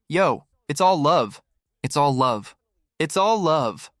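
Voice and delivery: slow, soothing mock backing down; mock placating a rapper. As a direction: placate the tough guy, hammed up. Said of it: "the rapper changed and was like".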